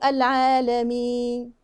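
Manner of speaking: slow "العالمين" with the last n barely there; unclear final noon. Shown as a demonstration. Teacher shows the noon not coming through, ending lost. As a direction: let the final n of "العالمين" vanish. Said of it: "مش باين".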